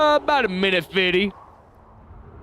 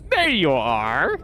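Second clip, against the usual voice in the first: delighted; much slower than usual. Real, not acted. Spots ship, drawn out.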